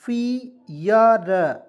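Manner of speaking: फियर stretched out very slowly, each sound clear; slow model pronunciation. Shown as a demonstration. Teacher modelling the word for students, slow and clear. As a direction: draw out फियर very slowly for learners. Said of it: "इसको पढ़ेंगे फियर".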